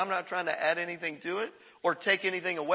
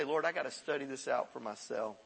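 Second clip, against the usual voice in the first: hushed prayer; 6 semitones lower, 8 dB quieter than usual. Retold or imitated. Believer praying privately to God, hushed. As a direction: lower and much softer, private prayer.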